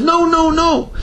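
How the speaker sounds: retold scream. Man waking from dream cries out to the Rav in alarm, high mock scream. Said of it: "he jumps up and starts screaming".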